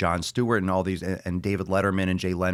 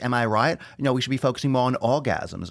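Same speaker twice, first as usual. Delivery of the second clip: mocking impression; 4 semitones higher than usual. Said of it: "She's just like".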